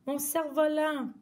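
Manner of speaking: high dismayed cry. Acted. Girl crying out for her kite, high cry. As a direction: wail for the kite. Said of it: "a crié la fillette".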